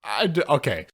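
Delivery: squeaky high disbelief dissolving into laughter; laughing disbelief. Real, not acted. Viewer laughing in disbelief at the episode. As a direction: crack up mid-question. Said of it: "I burst out laughing".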